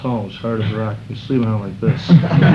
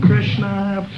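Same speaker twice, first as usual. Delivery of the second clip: calling out; 9 semitones higher than usual. Retold or imitated. Calling out at the bottle thrower.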